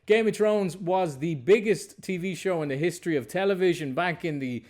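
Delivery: upbeat presenter opening a film show; presenter-style welcome with lifted key phrases; show intro. Acted. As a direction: introduce today's guest to the viewers, punchy openings. Host reads show intro.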